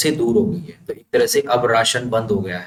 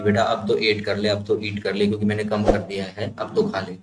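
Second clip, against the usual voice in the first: softer, coaxing plea; coaxing mother; 3 dB quieter than usual. Retold or imitated. Mother coaxing her son to eat, softer and coaxing. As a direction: gently urge a child to eat. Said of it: "जैसे माँ बेटे से कह रही".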